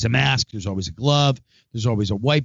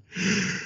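yawn sigh; 7 semitones higher, 10 dB quieter than usual. Real, not acted. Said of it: "I got a yawn".

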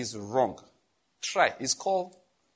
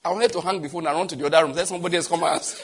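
fast, louder, laughing; amused rush; 5 dB louder, faster than usual. Real, not acted. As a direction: race through it chuckling. Laughing at own embarrassment.

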